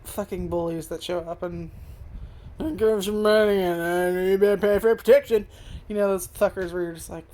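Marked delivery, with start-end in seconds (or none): 2.6-5.5 bully voice. Retold or imitated. Retelling the anime's bullies to viewers, loud mock-bully threat. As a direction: lean on the kid like a schoolyard thug, louder. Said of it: "We have the classic fucking bullies".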